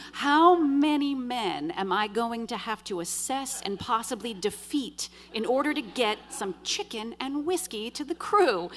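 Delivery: drawn-out, emphatic exasperation, rising at the end; retold exasperation. Woman stuck relying on men to fetch chicken, exasperated. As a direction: stretch out the rhetorical question, fed up.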